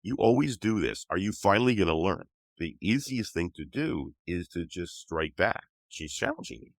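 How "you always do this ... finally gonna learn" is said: higher and louder, scolding; a mock nagging you always do this; exasperated wife. Wife scolding husband who caught cold, exasperated. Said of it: "my wife is like".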